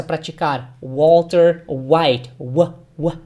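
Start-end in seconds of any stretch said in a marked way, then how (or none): 0.8-2.3 "Walter White" very slow and clearly louder; slow teacher model of "Walter White"; careful pronunciation. Shown as a demonstration. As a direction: spell out "Walter White" syllable by syllable for learners. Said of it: "Preste bem atenção na pronúncia".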